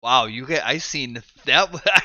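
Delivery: talking through a burp; burping the words. Real, not acted. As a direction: push the words out on a slow, loud burp. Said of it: "I seen the fucking volume bar move on that burp".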